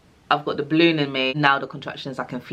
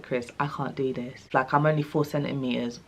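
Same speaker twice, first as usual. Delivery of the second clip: softer, worn out; exhausted plea; 2 semitones lower, 6 dB quieter than usual. Retold or imitated. Exhausted in labour, she pleads with her husband Chris. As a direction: beg your husband, spent.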